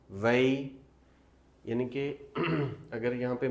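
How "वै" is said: वै held long as "wai"; stressed wai sound. Shown as a demonstration. Teacher drawing out the वै sound for students. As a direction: stretch वै into a clear "wai" diphthong. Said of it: "वे की नहीं".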